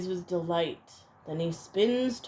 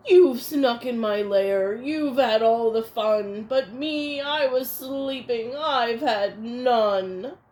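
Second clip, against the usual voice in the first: grumbling bear; 5 dB louder than usual. Acted. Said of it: "gnarls and snarls".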